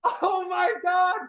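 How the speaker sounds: high shrieking disbelief; screaming with excitement; ecstatic. Real, not acted. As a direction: squeal over a big surprise. Sees something amazing live.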